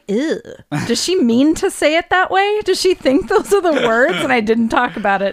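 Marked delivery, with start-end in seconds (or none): 0.1-4.1 retold disgusted disbelief. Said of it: "I just looked at her like".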